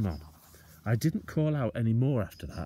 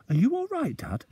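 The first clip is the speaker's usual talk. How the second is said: anxious question; 7 dB louder than usual. Acted. Boy anxious over father.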